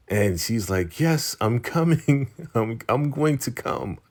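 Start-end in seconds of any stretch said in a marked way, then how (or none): 1.0-4.0 higher-pitched, halting imitation of a distracted woman; mock distracted reply. Woman in bed answering Daikon's call while busy, mock distracted. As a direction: put on her interrupted, high-pitched phone answer.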